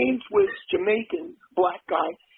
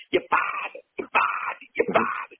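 mock Boston accent. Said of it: "she drove me insane".

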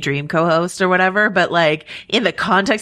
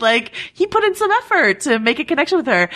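much higher, tickled and amazed, with a laugh in it; excited; 5 semitones higher than usual. Real, not acted. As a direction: gush about the effort he made. Excited riff on his effort.

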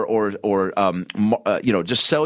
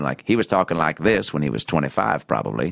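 deep Morgan Freeman voice; 7 semitones lower than usual. Retold or imitated. Imitating deep voice.

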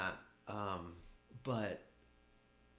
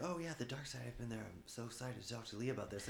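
mock excitement; 3 semitones higher, 4 dB quieter than usual. Recalling looking forward to the talk with Lee, mildly mock-excited. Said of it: "I was so excited".

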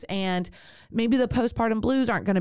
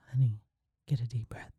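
low, soft mock husband voice, lower and quieter; imitating husband; 8 semitones lower, 7 dB quieter than usual. Wife imitating husband repeating the midwife, low and soft. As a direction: lightly mimic a husband coaching through labor. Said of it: "imitation of my husband".

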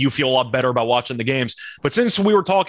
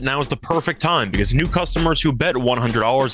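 ad read. Acted. Sponsor ad read.

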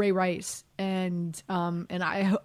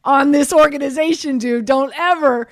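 louder, higher incredulous scolding with laughs; hammed-up laughing rebuke; mock scolding; 6 semitones higher, 8 dB louder than usual. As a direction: lecture him, laughing in disbelief. Retelling scolding the rookie.

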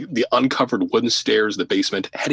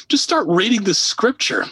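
frantic order; 12 semitones higher, 3 dB louder than usual. Retold or imitated. Host loses it, orders priests.

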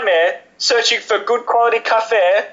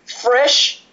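rapturous, raised coffee-snob praise; gushing; 5 semitones higher than usual. Real, not acted. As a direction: savour each word like a connoisseur. Ben rhapsodising about draft coffee.

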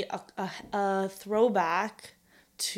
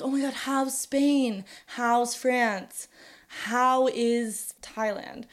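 gushing; 3 semitones higher, much slower than usual. Retold or imitated. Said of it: "people will be like".

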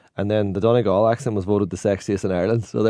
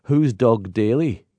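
tourist's question; 2 semitones higher, much slower than usual. Retold or imitated. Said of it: "And she said to me".

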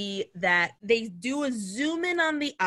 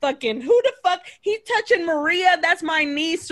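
loud, higher-pitched retold tirade; mock angry outburst; 4 semitones higher, 4 dB louder than usual. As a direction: play up a fed-up bar rant. Fed-up character confronts bar intruder.

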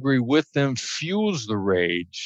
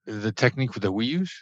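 hostage negotiator voice; 6 dB quieter than usual. Shown as a demonstration. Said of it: "I see what you did there".

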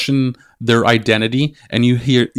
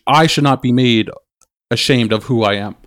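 shaking. Real, not acted. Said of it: "sorry, I'm shaking the table".

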